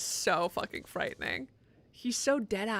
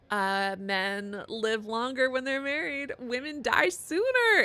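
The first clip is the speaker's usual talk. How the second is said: slow sarcastic; 2 semitones higher, 4 dB louder, slower than usual. Real, not acted. Gamer mocking the presentation's stats with slow sarcasm. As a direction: spell out the unfairness slowly.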